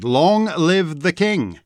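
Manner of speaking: lightly voiced herald, drawn out; a hint of a ceremonial crier; herald's proclamation. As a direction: proclaim it slowly, with a lifted voice. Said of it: "proclaimed the herald".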